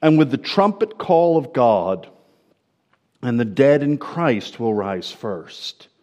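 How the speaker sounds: measured, solemn Bible reading; a preacher reading the epistle to his congregation, solemn and measured; scripture reading. Acted. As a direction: read the passage aloud to the church. Reads scripture aloud to congregation.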